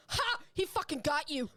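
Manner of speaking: high loud gleeful taunt; gleeful kid. Retold or imitated. Retelling little brother cheering during Nerf fight. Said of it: "my little brother just goes".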